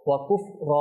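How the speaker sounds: ওয়াকুফ র with the last vowel open and held; one-alif stop. Shown as a demonstration. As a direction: stretch র one beat at the stop. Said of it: "এক আলিফ এখানে টানবো". (ওয়াকুফ র এক আলিফ টেনে)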